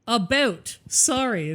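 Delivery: deliberate Ontario Canadian vowels; Ontario accent. Shown as a demonstration. Canadian shows friend how Ontario sounds, deliberate Ontario accent. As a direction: say it as separate Ontario accent samples. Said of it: "this is Ontario".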